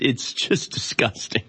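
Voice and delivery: whispered slowly in disgust. Real, not acted. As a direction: breathe it out, sickened. Disgust, then said again plainly.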